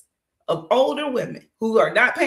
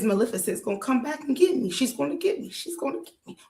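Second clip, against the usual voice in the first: paranoid fear; 4 semitones higher, faster than usual. Retold or imitated. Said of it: "All he's thinking is".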